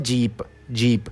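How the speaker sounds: जीप said slowly and softly, clear ee; slow Korean demo. Shown as a demonstration. Teacher models the Korean word for house, slow and soft. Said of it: "घर को क्या बोलते हैं?".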